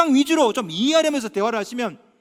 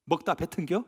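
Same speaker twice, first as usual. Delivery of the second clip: Chungcheong quip; 4 semitones lower, 3 dB quieter than usual. Retold or imitated. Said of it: "충청도 사람들 이렇게 말하죠".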